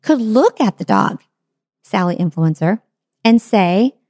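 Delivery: ordinary talk, nothing marked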